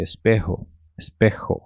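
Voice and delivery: "espejo" with the J as a throaty h; pronunciation demo. Shown as a demonstration. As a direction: model "espejo" as es-PEH-ho. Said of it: "seria mais ou menos esta forma de pronúncia". ("espejo" com J soando como rê)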